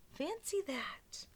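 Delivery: put-on high, slow amazed old lady.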